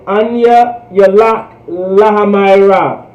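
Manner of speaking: Anya Yalak Lahamayra said slowly, each syllable clear; a teacher modelling Anya Yalak Lahamayra slowly; slow Hebrew model. Shown as a demonstration. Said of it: "to say".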